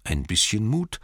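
measured, mildly solemn praise; lightly voiced dying Thorin. Dying Thorin praising the child of the West, mildly solemn. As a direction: give kind last words with understated weight.

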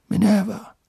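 lightly voiced kind old headmaster; Dumbledore voice. A narrator's reading.

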